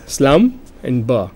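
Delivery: "slum" and "ber" said as separate slow syllables; split into syllables. Shown as a demonstration. Teacher showing that slumber has two syllables, split slowly. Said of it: "has got two syllables".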